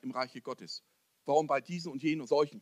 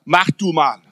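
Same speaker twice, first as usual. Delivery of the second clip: tossed-off casual command, louder; offhand order; 3 semitones higher, 12 dB louder, slower than usual. Retold or imitated. Preacher mocking a careless leader, offhand louder command. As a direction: hand the job over carelessly. Careless handing over of a calling.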